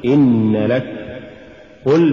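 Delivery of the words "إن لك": firm stress on إن, then لك; separate words. Shown as a demonstration. Teacher repeats the correct form, إن stressed before لك. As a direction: keep إن apart from لك.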